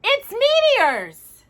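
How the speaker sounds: high, slow shouted insistence. A narrator's reading. Danny to his brother, shouting. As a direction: call it out like proof. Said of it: "shouted Danny".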